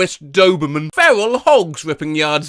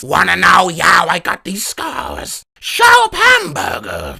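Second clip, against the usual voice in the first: Joker quote. Retold or imitated. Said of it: "movie quote".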